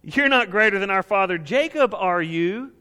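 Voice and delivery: the woman scoffing at Jesus, sarcastic. Retold or imitated. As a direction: throw the question back at him with scorn. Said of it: "the sarcastic statement that comes after that".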